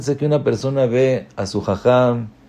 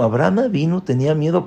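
higher, incredulous echo of the verse; astonished disbelief; 5 semitones higher, faster than usual. Pretend. Rabbi voicing a listener's amazement, incredulous. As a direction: repeat it as if you can't believe it. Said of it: "¿No es algo que dices, "¿Cómo?".

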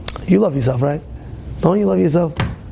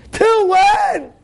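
much higher shouted Till when; shouted challenge; 3 dB louder than usual. Acted. Rabbi pressing the worried listener, shouted Till when. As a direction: cry out Till when at full force.

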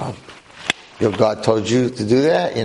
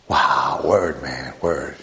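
much lower, laid-back street voice; cool kid approval; 11 semitones lower, much slower than usual. Retold or imitated. Students approving a sharp Torah point, deep cool slang voice. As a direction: drop low and slow it like a cool teen. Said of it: "they'll be like".

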